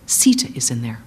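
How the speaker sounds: low, hushed horrified whisper. Acted. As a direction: gasp it out in dread. Hanuman realizes in horror.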